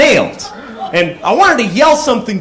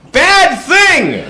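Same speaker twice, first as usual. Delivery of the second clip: high, sudden shout; yelled warning; 10 semitones higher than usual. Retold or imitated. Shouting at the cyclist, a sudden high warning. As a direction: bark it out as a warning. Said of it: "So I just yelled out".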